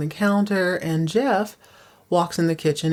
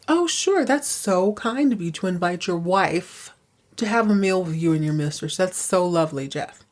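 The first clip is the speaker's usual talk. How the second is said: sarcastic wife. Retold or imitated. Kirby catches Jeff and Fallon.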